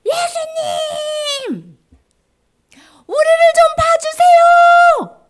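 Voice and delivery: high, long-drawn shout; loud distant call. Acted. Lepers calling to Jesus from afar, high drawn-out shout. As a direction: call out desperately to someone far away. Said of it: "어디선가 큰 소리가 들렸어요".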